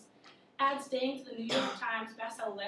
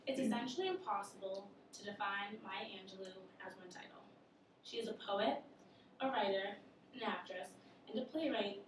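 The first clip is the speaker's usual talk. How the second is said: slightly slurred, swollen tongue; with a sore tongue. Real, not acted. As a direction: speak around a swollen tongue. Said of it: "my tongue is swollen".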